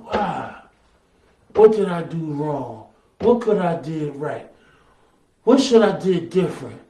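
low, subdued string of questions; troubled self-questioning. Acted. Preacher acts out a disappointed believer asking why, low and troubled. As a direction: question yourself quietly, each line falling.

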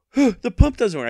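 high, loud, whiny mock complaint; mocking a complaining buyer. Seller mocking the complaining buyer, whiny high mock voice. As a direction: imitate the annoyed customer, nasal and put-upon. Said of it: "and then the lady bitched".

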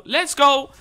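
high, loud let's go; excited cheer. Real, not acted. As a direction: punch the air with it. Celebrating a launchpad find.

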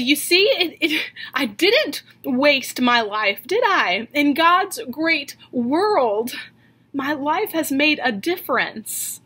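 a teacher's mildly acted victory over her brother; triumphant retort. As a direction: prove the brother wrong with a proud flourish. Teacher vindicated before her brother.

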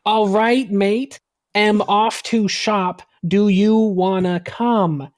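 lightly put-on British accent, slow; mock British accent. Shown as a demonstration. Reading the wikiHow example to friends in a light British accent. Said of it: "Equals no".

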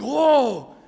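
high, loud amazed "whoa"; astonished. Acted. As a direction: gawk aloud in acted amazement. Reacts to seeing gunshot victim.

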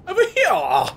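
mock-questioning in a very high pitch; silly high repeat. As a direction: squeak the question playfully.

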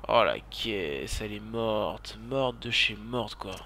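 slow, low groan of dismay; dejected lament. Real, not acted. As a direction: drag out the words over the wrecked car. Constate la voiture détruite. (se lamenter lentement, dépité)

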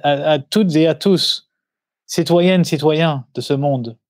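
lightly hammed-up French presidential address, slow and solemn; mock presidential speech. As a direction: play a president greeting the nation, half in jest. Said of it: "I'm, like, doing this presidential speech".

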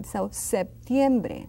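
slow "septiembre" with a light P; barely touch the P in "septiembre"; slight P. Shown as a demonstration. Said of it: "It is pronounced slightly".

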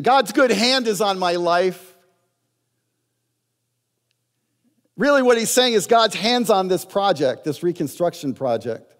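rising to a loud preaching peak; preaching climax. Real, not acted. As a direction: lift it high and proclaim it.

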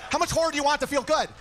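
loosely schmooze like a smooth talker; Vince Vaughn impression. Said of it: "I turned into, like, Vince Vaughn".

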